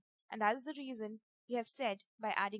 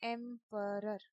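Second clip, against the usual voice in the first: "Emperor" said slowly, syllable by syllable: em, per, or; slow syllable-split emperor; slower than usual. Shown as a demonstration. Teacher showing the class syllables in "Emperor", slow. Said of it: "take it in a slow form".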